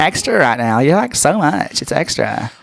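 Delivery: a hint of sorority sister, drawn out. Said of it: "my complete sorority voice and be like".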